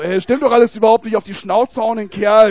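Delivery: loud, ranting mock rage; angry outburst. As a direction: shout it like a furious brawler. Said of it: "haben wir auch gesagt, so".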